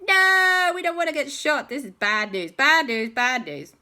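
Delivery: high, loud panicked wail; mock panic. Whole group afraid of getting shot, mock panic. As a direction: wail in hammed-up alarm.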